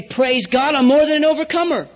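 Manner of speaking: joyful confession. Retold or imitated. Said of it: "and say".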